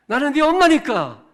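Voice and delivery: high, loud declaration; mom's shouted trump card. Acted. 아이에게 말싸움을 끝내는 엄마처럼, 높고 크게 외치듯. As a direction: slam it down as the final word. Repeat of mom line.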